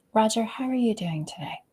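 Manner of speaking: soft, breathy and interested; caring, attentive. Shown as a demonstration. Leader checking in on Roger, warm and attentive. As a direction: ask like you really want to know. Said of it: "the way you use your voice is very different".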